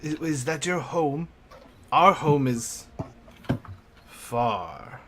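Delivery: careful, spaced-out words for a non-speaker; slow, simple speech. Acted. Professor asks the girl about her home, slowly and carefully. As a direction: speak slowly, leaving gaps between phrases.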